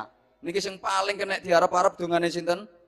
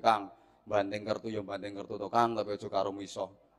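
gentle admonishing; 7 semitones lower, 11 dB quieter than usual. Retold or imitated. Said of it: "iki tak tuturi".

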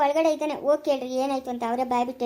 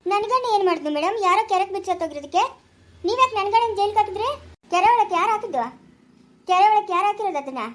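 heated protest; 4 semitones higher than usual. Acted. Heated quarrel at police station.

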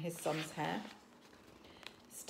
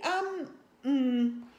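awkward chief; 6 semitones higher, 7 dB louder than usual. A narrator's reading. Stoic hesitating in voice.

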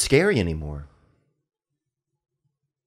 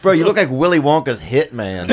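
laughing roast; 4 semitones higher, 4 dB louder than usual. Real, not acted. Roast delivered while cracking up.

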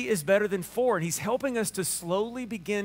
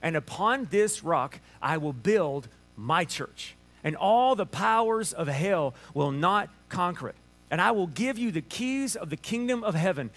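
scripture reading. Acted. Reads scripture aloud.

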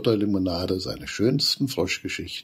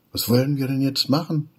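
higher, louder, desperate question; despairing; 8 semitones higher, 5 dB louder than usual. Acted. Lost Wulle asking the friends what to do, despairing. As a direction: at a loss and worried. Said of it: "Wulle ist ganz verzweifelt".

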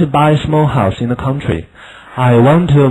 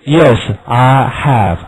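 slow choral drill; 3 dB louder, slower than usual. Shown as a demonstration. Class chants drilled answer.

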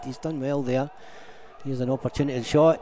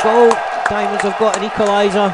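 much higher, louder, fast goal call; goal yell; 7 semitones higher, 9 dB louder, faster than usual. Real, not acted. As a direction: yell the equaliser. Equaliser called live.

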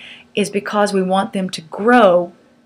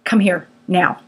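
level firm tone; 2 semitones lower than usual. Shown as a demonstration. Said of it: "Keep your tone level and say".

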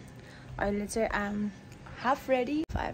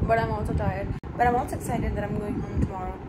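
Australian accent; 3 semitones lower than usual. Real, not acted. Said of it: "Why am I talking in this accent?".

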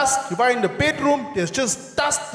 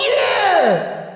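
mock cheer; 9 semitones higher, 4 dB louder than usual. Neighbours shout suddenly.

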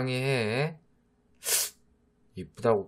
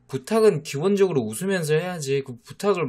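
exasperated; 6 semitones higher, 5 dB louder, faster than usual. Acted. Exasperated lecturing girlfriend.

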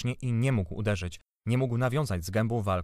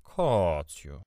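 lower, drawn-out gentle appeal; kindly call; 4 semitones lower than usual. A narrator's reading. Aunt appealing to her angry husband, kindly. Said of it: "zawołała ciocia z dobrocią".

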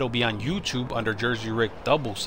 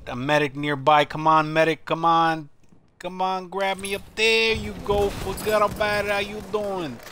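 higher, louder plea to a teammate; raised, pressing shout for aid; urgent call for help; 8 semitones higher, 6 dB louder than usual. Real, not acted. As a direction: call out to the medic, pitch climbing. Calling for a medic in game.

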